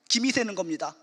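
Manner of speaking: usual speaking voice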